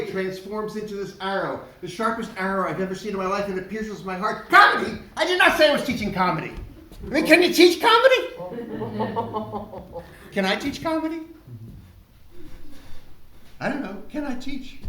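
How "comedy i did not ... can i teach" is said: panicked disbelief. Retold or imitated. Panicked inner reaction.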